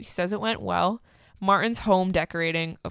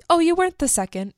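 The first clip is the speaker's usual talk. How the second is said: pitched up high, a bit louder, teasing; high, bright Natalie; 10 semitones higher, 4 dB louder, faster than usual. Retold or imitated. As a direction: play the flirty woman, high and cheeky. Natalie voiced, high and loud.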